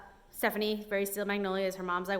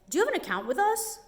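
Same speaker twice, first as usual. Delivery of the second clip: high, pushy mock salesman voice, much higher; 10 semitones higher, 4 dB louder than usual. Mimicking the propane man to the viewers, pushy and high. Mocking the propane man's question.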